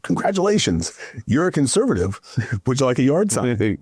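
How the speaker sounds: high, bright mock announcement with a laugh at the end; playful congratulations. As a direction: tease the voter as if handing out a prize. Punchline to converted voter.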